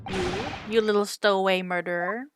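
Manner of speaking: put-on lightly Russian-accented sailor sneering at a stowaway; a touch of Russian brusqueness; gruff sailor accent. Sailor Biff scolding the stowaway, lightly Russian-accented.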